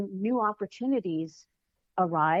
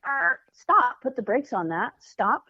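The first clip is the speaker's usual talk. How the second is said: firm stop command; 3 semitones higher, 4 dB louder than usual. Shown as a demonstration. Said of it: "you just say".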